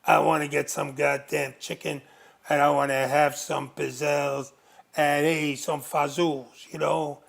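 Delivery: lightly voiced as a mob boss, only a hint of a put-on; a mild wiseguy voice that stays close to his own; gangster voice. Retelling to the host how his boss talked, in a light gangster voice. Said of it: "he would have that gangster voice".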